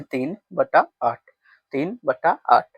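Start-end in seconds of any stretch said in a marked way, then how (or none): 0.0-1.2 तीन बटा आठ said very slowly, with बटा stretched; slow model reading. Shown as a demonstration. Teacher showing pupils how the fraction is read, slowly. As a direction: draw out तीन बटा आठ word by word. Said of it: "तो हम इसको ऐसे पढ़ते हैं".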